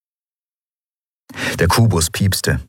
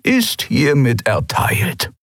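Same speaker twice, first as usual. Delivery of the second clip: Suran granting clearance; 7 semitones higher, slower than usual. A narrator's reading. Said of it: "sagte Suran".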